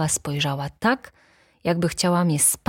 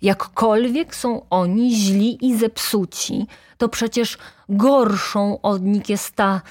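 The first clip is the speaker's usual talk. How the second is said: slow, emphatic denunciation; dramatic, drawn-out cry; exclaiming accusation; 5 semitones higher, 4 dB louder, slower than usual. A narrator's reading. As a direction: build up to the worst culprit. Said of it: "zawołała".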